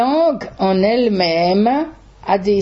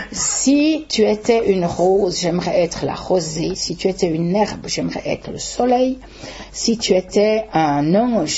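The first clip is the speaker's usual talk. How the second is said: poem recital. Acted. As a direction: recite it gently, line by line, fading at the end. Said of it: "j'ai dit au micro son poème".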